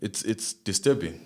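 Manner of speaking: breathy hushed whisper, shaken. Real, not acted. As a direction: whisper it as if it's too dark to say aloud. Disturbed reaction to the case.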